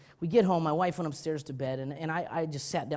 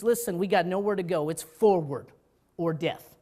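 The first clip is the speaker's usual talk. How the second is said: general's rally speech; 6 dB louder than usual. Retold or imitated. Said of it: "this is his speech".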